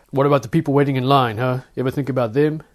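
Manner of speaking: a touch of a loud scold; guard scolds the passenger about people in line, mildly loud. Acted.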